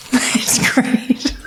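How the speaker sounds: whispered mock agreement. Laughing therapist whispers back her friend's line. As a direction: breathe it out in a whisper.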